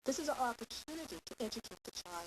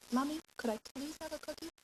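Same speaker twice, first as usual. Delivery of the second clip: put-on higher, sing-song polite child; child asking mother sweetly, much higher; 8 semitones higher than usual. Shown as a demonstration. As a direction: play the kid asking nicely now.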